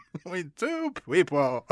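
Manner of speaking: "between two people" with w for r and l; soft mock-clergyman "people" as "peopwe"; exaggerated speech impediment on "between two people"; Peter Cook. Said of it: "when Peter Cook says".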